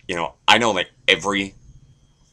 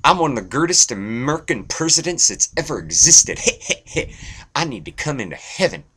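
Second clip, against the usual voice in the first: high, drawling Texan presidential impression; goofy high-pitched boast with a chuckle; George W. Bush; 8 semitones higher than usual. George W. Bush pleading his case to Saint Peter, presidential impression. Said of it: "George W. Bush walks up and goes".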